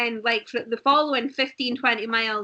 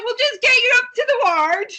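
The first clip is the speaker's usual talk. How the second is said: humouring paramedic; 12 semitones higher, 8 dB louder than usual. Retold or imitated. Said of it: "he's like".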